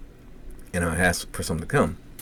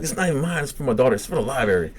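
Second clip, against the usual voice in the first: higher-pitched retold self-defence; defensive protest; 6 semitones higher, faster than usual. Dad defending a borrowed kids' book, defensive. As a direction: protest a little too quickly, pitched up.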